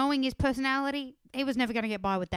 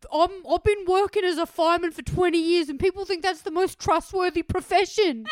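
high, loud mock-distraught protest; hammed-up overwrought self-defence; Jamie freaking out; 7 semitones higher, 9 dB louder than usual. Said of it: "Jamie started to freak out".

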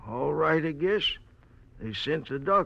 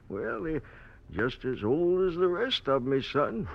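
put-on very old man; 2 semitones higher than usual. Old man jokes about his eyes.

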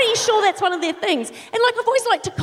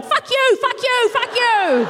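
chanted, higher, slower curses; mock rude thoughts; 8 semitones higher, slower than usual. Rude thoughts escaping into the street, mock jeering. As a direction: let the rude inner thoughts run loose. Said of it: "out in the street going".

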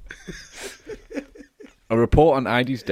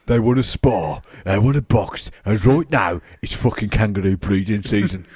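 Brummie gangster parody, louder; mock Brummie; 2 semitones lower, 4 dB louder than usual. Carer's warning redone as kangaroo Shelby, mock Brummie. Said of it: "kangaroo Shelby".

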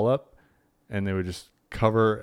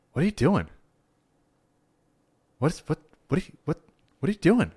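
imitating scandalized old woman; 8 semitones higher, faster than usual. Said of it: "she went".

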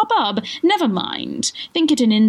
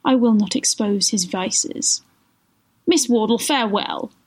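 melodramatic farewell; 3 semitones higher than usual. Acted. Schemer taking leave of Miss Wardle, solemn melodrama. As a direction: draw it out with mock nobility.

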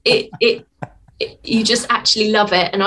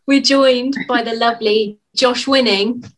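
slow, gushing host intro; overexcited; 2 semitones higher than usual. Real, not acted. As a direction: lay it on thick. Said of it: "I got a bit overexcited then".

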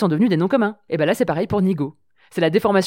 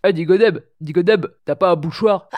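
blocked nose. Pretend. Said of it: "il suffit d'un rhume".

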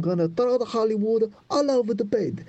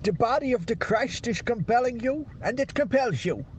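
Swedish accent attempt. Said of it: "I think I've got it".

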